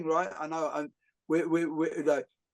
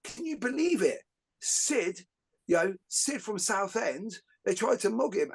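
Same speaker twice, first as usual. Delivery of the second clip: mock tabloid outrage; 5 semitones higher than usual. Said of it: "the paper were like".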